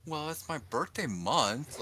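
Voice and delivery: high, drawn-out imitation of a woman justifying herself; slow, singsong self-excusing; defensive excuse-maker. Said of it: "She'll be like".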